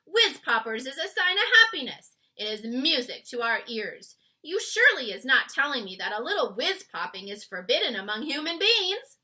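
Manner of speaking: loud cheerful giant; proud, loud giant explaining; happy giant voice. A narrator's reading. BFG giant voice.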